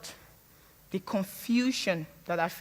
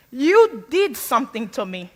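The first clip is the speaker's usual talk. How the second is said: louder, forceful accusation; 6 dB louder than usual. Retold or imitated. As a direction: throw it at her like a charge. Confronting mom, pointing at her.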